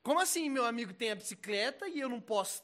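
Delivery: whiny envious complaint. Acted. Acting envious person complaining to God.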